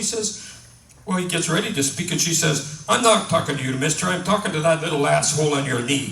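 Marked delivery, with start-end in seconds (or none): 2.9-6.1 louder acted comic scolding; indignant retort. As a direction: put him straight, firmly. Offended woman snaps at dummy.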